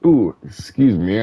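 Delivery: hiccuping mid-sentence; a sudden hiccup breaks the words. Real, not acted. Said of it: "I have the hiccups".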